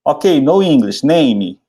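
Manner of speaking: slow clumsy English on the phone; slow broken English. Retold or imitated. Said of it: "Aí eu falava assim".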